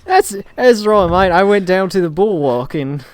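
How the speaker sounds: put-on Cockney accent; hammed-up Cockney geezer. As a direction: play along as a mock Cockney. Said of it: "like, a Cockney accent at the end".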